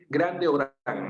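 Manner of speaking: "grande o gran" muy despacio, alargado; pronunciación lenta. Shown as a demonstration. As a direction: deja oír "grande" frente a "gran" sin prisa. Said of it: "Si digo, por ejemplo". (ejemplo explicado despacio a Juan Rafael)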